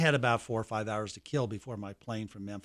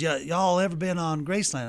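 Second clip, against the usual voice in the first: higher voice imitating a Southern security man; a hint of a remembered gatekeeper, pitched up; Uncle Vester; 4 semitones higher than usual. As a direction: lightly impersonate the gatekeeper asking visitors. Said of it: "I can hear him talking just like this".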